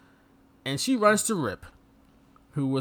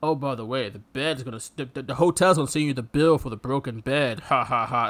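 mock Rip; 6 semitones lower than usual. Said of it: "He says".

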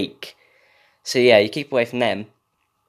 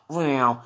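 car sound effect; 2 semitones higher than usual. Pretend. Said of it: "that's my car sound effect".

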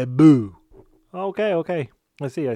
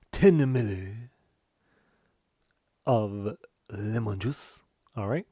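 puppet chef voice; 4 dB louder than usual. Acted. Puppet chef gives the recipe.

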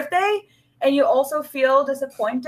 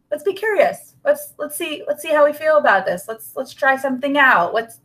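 higher, bright and inviting; upbeat curious; 5 semitones higher than usual. Shown as a demonstration. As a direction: cheer yourself into curiosity. Modelling a curious inner voice.

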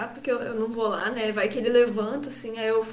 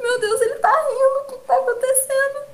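much higher, acted bewilderment; bewildered; 11 semitones higher than usual. Girlfriend sees him laughing while hurt, acted bewilderment. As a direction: replay your disbelief in a high voice.

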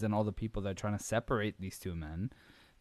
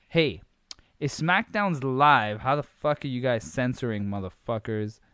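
indignant rant; 2 semitones higher, 7 dB louder than usual. Real, not acted. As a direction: call them out in comic outrage. Mock rant at the censors.

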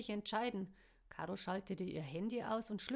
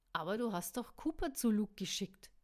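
loud, cross outburst; angry; 6 dB louder than usual. A narrator's reading. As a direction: blurt it out angrily. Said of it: "polterte Caro sauer".

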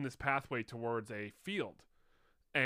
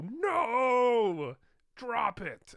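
higher, louder command shout; yelling at dog; 10 semitones higher, 6 dB louder, much slower than usual. Retold or imitated. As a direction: yell at the dog to let go. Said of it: "and I go".

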